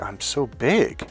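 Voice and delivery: retold baffled question; puzzled echo. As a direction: repeat it slowly as if puzzled. Echoes the gym guy, baffled.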